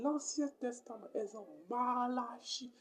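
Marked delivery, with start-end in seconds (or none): 1.7-2.7 "Malachi" with a long first syllable, each part separate. Shown as a demonstration. Teacher giving an example ending in I, "Malachi" sounded out. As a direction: stretch "Malachi" out for the learners. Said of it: "On prend la dernière syllabe est chi".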